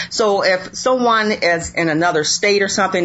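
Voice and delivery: ordinary talk, nothing marked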